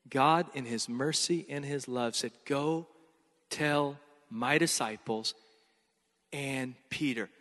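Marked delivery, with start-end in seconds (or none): 2.4-7.3 tender. Acted. God's merciful words, softly.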